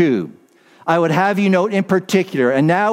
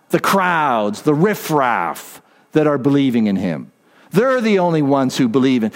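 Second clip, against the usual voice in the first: demeaning mock Pharisees; 2 semitones lower than usual. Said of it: "They spoke of them like this".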